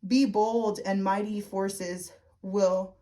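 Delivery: slow, halting read with the wording jumbled; misworded read. Real, not acted. Reading the Quest card to viewers, stumbling on the words. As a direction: stumble through the card text slowly. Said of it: "sorry, I couldn't word it right".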